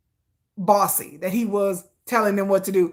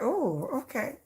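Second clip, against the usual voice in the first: swooning; 8 dB quieter, slower than usual. Retold or imitated. Swooning over his accent.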